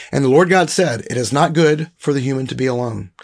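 measured read-aloud with deliberate emphasis; scripture reading. Acted. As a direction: read the passage aloud deliberately, weighting key words.

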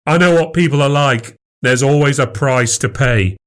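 cynical retort. Acted. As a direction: argue like a suspicious husband.

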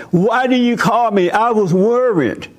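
high, accusing and hurt; upset wife. Retold or imitated. Wife scolds husband for not calling, high and hurt.

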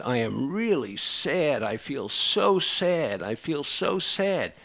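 slow, sad quote of a tearful patient; lightly imitating a weeping patient, slow; mock crying. Therapist retells patient crying, slow and sad. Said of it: "crying and said".

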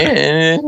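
high whiny imitation of bad playing; bad playing imitated. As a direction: mimic a lousy stage musician in noises. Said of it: "playing Blowin' in the Wind badly".

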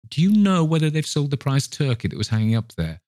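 high, excited enquiry; keen, lifted-pitch question; eager questioning. Acted. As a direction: ask the lad with bubbling enthusiasm. Scrooge eagerly questions boy.

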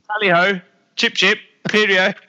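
high, loud hammed-up posh British accent; mocking a posh British accent on purpose. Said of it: "that accent".

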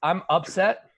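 "upset" said up-SET, as for sad; stress on second syllable. Shown as a demonstration. Showing the co-host the sad sense, stress on up-SET. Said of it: "emphasis on the wrong side".

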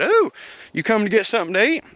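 high-pitched put-on woman's voice, quick; mock surprised "ooh", then a quick high question; imitating friendly greeting. Kids' mother greeting him at her work, imitated high voice.

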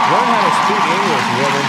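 loud, fast and high jeer; mocking jeer. Real, not acted. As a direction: bark it out with contempt.

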